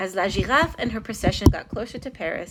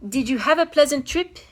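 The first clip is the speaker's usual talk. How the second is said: polite king; 7 semitones higher, 4 dB louder than usual. A narrator's reading. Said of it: "he asked Professor Saint-Hilaire politely".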